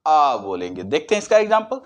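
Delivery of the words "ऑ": आ as a drawn-out open "aw"; long, relaxed vowel. Shown as a demonstration. Teacher explaining the vowel to learners, long relaxed "aw". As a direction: let आ out long and easy, like "aw". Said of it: "बिल्कुल आराम से लंबा बोलते हुए".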